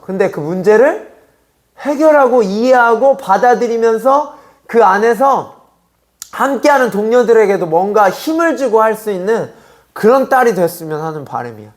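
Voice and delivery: ordinary delivery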